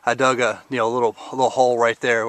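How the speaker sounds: breathless after digging; out of breath. Real, not acted. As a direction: talk while catching your breath. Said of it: "sorry, I'm a little bit out of breath".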